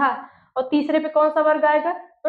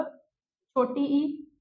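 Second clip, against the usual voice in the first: slow recital; 7 dB quieter, much slower than usual. Shown as a demonstration. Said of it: "बस इसी में याद कर लो".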